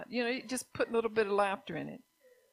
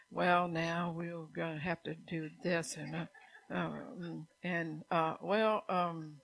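mock boring preacher; 3 semitones lower, 4 dB quieter, slower than usual. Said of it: "if you're up here preaching and say".

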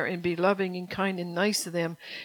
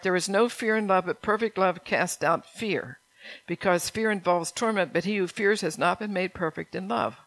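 scripture reading. Acted. Pastor reading the verse to his flock, measured. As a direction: read the verse with weight.

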